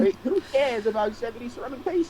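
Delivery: put-on high, brash British accent. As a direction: play a bold British rogue haggling. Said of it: "He's doing an accent".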